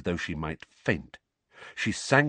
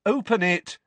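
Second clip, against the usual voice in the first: high, pressing plea; urging; 12 semitones higher, 3 dB louder than usual. A narrator's reading. Boy to his aunt holding the letter, urging. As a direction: press her to do it now. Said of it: "Harry urged her".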